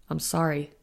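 somber, a touch low. Acted. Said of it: "in a low, somber voice".

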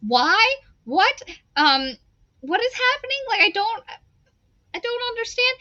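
high, incredulous squeaky voice; bewildered high pitched questions, slowed; baffled squeak. Retold or imitated. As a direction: sound totally bewildered and shrill with disbelief. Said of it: "I'm like".

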